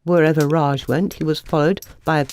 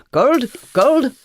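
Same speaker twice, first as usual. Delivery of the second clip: high, louder alarm; shocked, higher and louder; horrified; 9 semitones higher, 4 dB louder than usual. A narrator's reading. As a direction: gasp it out in horror.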